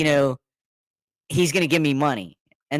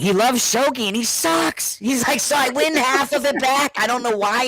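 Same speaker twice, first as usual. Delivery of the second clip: amused quote; 9 semitones higher than usual. Retold or imitated. Friend quoted, amused and high.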